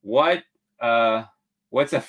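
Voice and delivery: hearty pirate read. Retold or imitated. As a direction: read it like an old sea pirate. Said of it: "Yolanda says".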